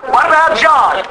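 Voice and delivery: Peter's insistence. Retold or imitated. Peter pestering Jesus about John, insistent and high. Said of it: "Peter's interest is".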